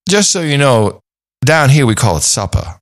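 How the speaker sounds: a hint of Southern accent, dropping the R in supper. Imitating a polite Southern rancher correcting talk of dinner, light Southern accent. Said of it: "he piped up and said".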